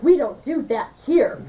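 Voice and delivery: slow, mildly offended waitress. Acted. Waitress telling off the customer who asked for a quickie, mildly offended. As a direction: spell it out, affronted. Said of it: "And she got all offended".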